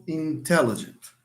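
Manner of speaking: "intelligent" stressed on the second syllable. Shown as a demonstration. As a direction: lean on the TE in "intelligent". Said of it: "the stress falls on te".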